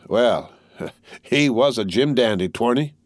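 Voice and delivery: a short laugh, then slow musing; rueful laugh. Acted. Tattered soldier answers the youth with a rueful laugh. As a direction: chuckle sadly at the dead man's nerve.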